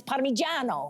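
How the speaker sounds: Parmigiano said the Italian way; mock-pretentious Italian Parmigiano; pretentious pronunciation. Shown as a demonstration. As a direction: show off Parmigiano as par-mee-JAH-no. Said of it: "or you can sound pretentious".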